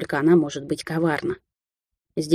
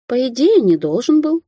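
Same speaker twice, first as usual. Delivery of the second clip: drawn out; 7 semitones higher, 3 dB louder than usual. Acted. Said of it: "протянула Алисия".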